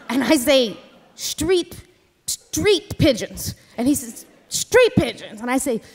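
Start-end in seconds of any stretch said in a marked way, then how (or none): 1.1-3.5 slow, incredulous repeat, quieter; stunned disbelief. Retold or imitated. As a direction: repeat "Street pigeons" slowly, in disbelief. Narrator repeats Joe's words, stunned.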